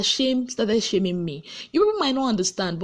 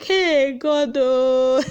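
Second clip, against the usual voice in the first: shocked exclamation; 5 semitones higher, 4 dB louder, much slower than usual. Retold or imitated.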